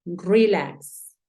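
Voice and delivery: "Relax" said the English way, first syllable strong; "Relax" with the stress on the first syllable, demonstrated clearly for the student; English pronunciation. Shown as a demonstration. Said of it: "Entonces tú dices".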